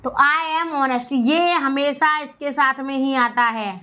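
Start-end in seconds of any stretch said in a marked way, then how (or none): 0.2-1.1 slow repeat. Shown as a demonstration. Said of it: "एच यहाँ पर silent रहता है".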